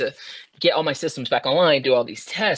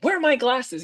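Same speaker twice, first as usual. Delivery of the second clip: acted crankiness; 11 semitones higher than usual. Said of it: "I was not a nice human being".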